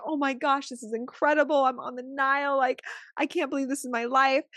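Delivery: high, bubbly delight about the trip; gushing excitement. Retold or imitated. Imitating thrilled guests on the Nile, high and gushing. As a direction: gush like a thrilled tourist.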